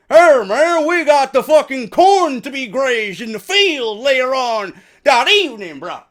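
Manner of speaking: lightly voiced redneck farmer bossing his wife around; mock hillbilly farmer. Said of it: "Farmer Bill and his wife fucking Martha".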